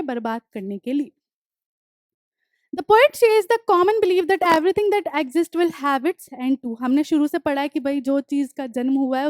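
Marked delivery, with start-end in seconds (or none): 2.7-6.7 deliberate dictation pace, each word spaced; slow textbook reading. Acted. Teacher reading the poem notes aloud to students, slow and deliberate. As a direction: read the line out slowly for the class to copy. Reads textbook line slowly.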